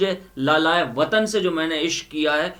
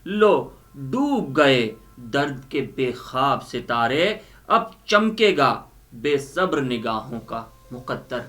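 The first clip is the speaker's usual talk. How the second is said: measured, expressive Urdu poetry recital; poem recitation. Acted. Reciting Faiz's poem to the audience, expressive recital. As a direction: declaim each line, repeating the best ones.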